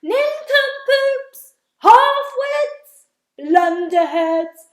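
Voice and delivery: very high, loud slow insults; yelling insults. Acted. Centipede yelling insults at the cloud men. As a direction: hurl each word across the sky. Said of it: "yelling at the cloud men as loud as he could".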